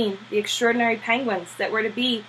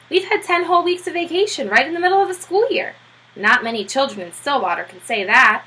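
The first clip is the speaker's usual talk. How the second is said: Bill voiced; 5 semitones higher than usual. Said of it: "said Bill".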